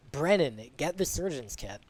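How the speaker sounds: imitated shout to someone across the way; calling out. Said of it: "is being called out to him".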